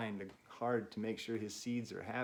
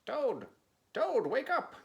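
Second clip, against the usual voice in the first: much higher, louder call; calling to wake; 13 semitones higher, 7 dB louder than usual. Acted. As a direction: call out to wake a sleeping friend. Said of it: "said Frog".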